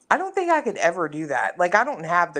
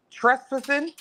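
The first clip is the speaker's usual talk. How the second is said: British accent; 8 semitones higher than usual. Real, not acted. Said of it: "That was your British accent".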